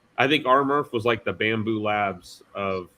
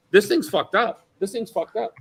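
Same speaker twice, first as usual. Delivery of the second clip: mock Tim; 10 semitones higher, 4 dB louder than usual. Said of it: "grabbing it with his hands and going".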